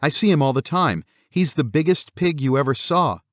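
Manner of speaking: put-on high-pitched child's protest; protesting little girl. A narrator's reading. Daughter insists to her mother about imaginary friend, protesting. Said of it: "Missy protested".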